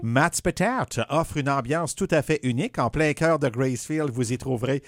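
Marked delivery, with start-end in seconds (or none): 0.0-1.0 English accent. Real, not acted. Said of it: "T'as eu un accent anglais".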